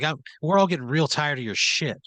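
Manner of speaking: a touch of fed-up anger; fed-up confrontation. Acted. Boss scolding worker before the crew, mildly fed up.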